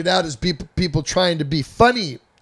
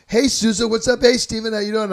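higher, upbeat greeting from party guests; 7 semitones higher, 5 dB louder than usual. Retold or imitated. Partygoers greet the tripping narrator, higher and upbeat. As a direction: chirp it like friendly partygoers.

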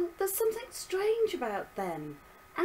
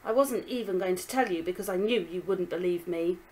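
put-on angry girl; 3 semitones higher, 7 dB louder than usual. Daughter argues back.

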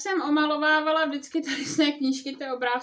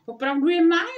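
higher, louder happy exclaim; cheering up; 4 semitones higher, 9 dB louder than usual. Acted. Žbluňk sees the calendar says May, happy exclaim. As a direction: brighten up with sudden joy. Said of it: "rozveselil se".

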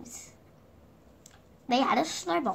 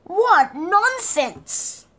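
higher, louder, very slow; drawn-out exclamation; 8 semitones higher, 8 dB louder, much slower than usual. A narrator's reading. Narrator marvelling at the card game, high, loud, very slow. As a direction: stretch it out in delight. Same phrase earlier.

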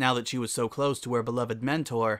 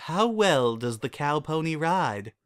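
sweet voice; 4 semitones higher than usual. Acted. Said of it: "said in a sweet voice".

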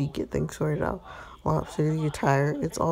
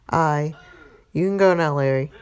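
louder, curt brush-off; sharp dismissal; 6 dB louder than usual. Acted. Jealous husband sends the flirting waiter off with a loud, curt dismissal. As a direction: cut him off and send him away, firmly.

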